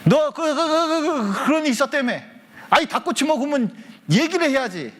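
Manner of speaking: high, stammering motherly scolding; mock nagging scolding. Mother scolding her child over borrowed money, imitated nagging. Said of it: "잔소리는 들었어요".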